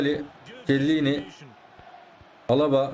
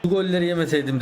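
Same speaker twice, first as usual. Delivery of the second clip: mock regret; 2 semitones higher than usual. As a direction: stretch it out as the beaten opponent. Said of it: "dedirteceğim şimdi ona".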